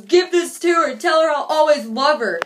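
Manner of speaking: lightly voiced lovesick boy; mock dramatic kid. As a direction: ham up a heartbroken teen. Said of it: "and he goes".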